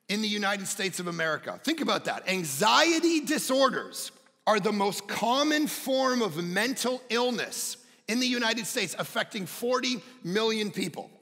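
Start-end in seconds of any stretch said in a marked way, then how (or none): 2.3-11.1 higher-pitched, weighty sermon delivery; emphatic preaching. Real, not acted. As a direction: drive each phrase home to the congregation. Preacher drives the statistic home.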